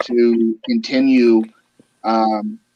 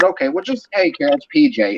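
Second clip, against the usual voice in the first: higher-pitched quick self-introduction on the phone; retold friendly phone call; 7 semitones higher than usual. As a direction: lift the voice as if calling in. Retold phone call, own words.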